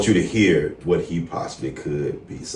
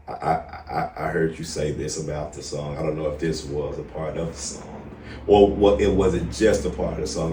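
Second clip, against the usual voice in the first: gentle; 2 semitones lower, 7 dB quieter than usual. Real, not acted. Gentle question about suicidal thoughts.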